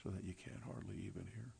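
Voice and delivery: barely audible, hushed demonstration; a timid, near-silent voice to show what wisdom is not; very soft voice. Shown as a demonstration. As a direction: speak so softly they can hardly hear you. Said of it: "in a very soft voice like this".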